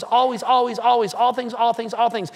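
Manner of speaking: ALWAYS and ALL THINGS hammered out in an even, repeated beat; insistent repeats, every "always" and "all things" stressed; driving it home. Retold or imitated. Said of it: "He's driving something".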